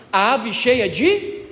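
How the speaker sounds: slow, drawn out, rising on de and left hanging; fill-in-the-blank prompt. Shown as a demonstration. Priest leaves the Hail Mary unfinished for the congregation, slow rising prompt. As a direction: stretch it out and wait for the people to answer.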